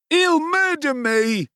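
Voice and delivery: high, slow, terrified blubber. A narrator's reading. Noah, beaten by Oliver, blubbers in terror. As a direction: whimper it in panic. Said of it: "blubbered Noah".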